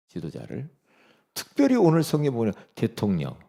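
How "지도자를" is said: 지도자를 repeated soft and low with a rise; soft echo. Shown as a demonstration. Preacher softly echoing 지도자를 to the congregation. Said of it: "지도자를 위해서".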